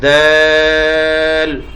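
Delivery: دال held long on the vowel; drawn-out letter name. Shown as a demonstration. Teacher demonstrating madd on a letter to the class, slow stretch. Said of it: "مد کے ساتھ پڑھیں گے".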